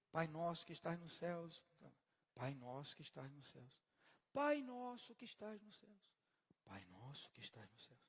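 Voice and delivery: vary the melody on every "Pai nosso que estás nos céus", dropping away at the end; changing intonation. Retold or imitated. Preacher mocking someone repeating the prayer, varying the tune each time. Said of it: "a pessoa muda a entonação".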